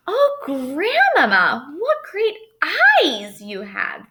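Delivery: put-on girl crying out. A narrator's reading. Girl crying out at grandmother's eyes, high and slow. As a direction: cry it out in growing alarm. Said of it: "the girl cried out".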